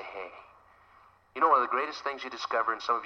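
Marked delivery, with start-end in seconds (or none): 0.0-0.3 soft gentle hey. Retold or imitated. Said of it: "you gotta say".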